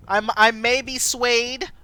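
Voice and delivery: slow, drawn-out teasing with a rising end. Real, not acted. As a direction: dangle it coyly, slowly. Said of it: "teasing chat about romance choice".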